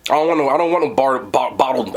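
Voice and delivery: stumbling through a mouthful of brisket; words garbled by chewing; mouth full. Real, not acted. Reviewer talking to camera with a full mouth. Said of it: "I can't even talk".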